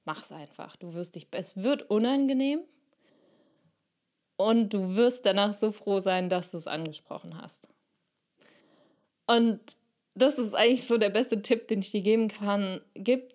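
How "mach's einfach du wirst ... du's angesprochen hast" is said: lightly voiced steady adult reassurance; confident adult voice. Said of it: "die souveräne, erwachsene Stimme".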